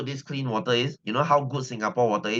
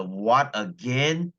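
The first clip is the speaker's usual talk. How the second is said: exasperated disbelief; much slower than usual. Real, not acted. Exasperated at another water cut.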